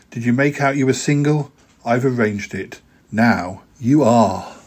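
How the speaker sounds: measured poetry reading to an audience; poem reading. Acted. Poet reading his verse to radio listeners, measured and rhythmic. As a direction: read the verses with a steady, rhythmic lilt.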